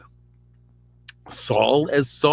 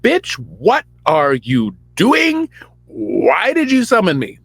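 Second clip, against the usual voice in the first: high, louder mock scolding; annoyed Samuel; 7 semitones higher, 6 dB louder, slower than usual. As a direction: slowly snap at him in a put-on voice. Samuel annoyed at Saul, voiced.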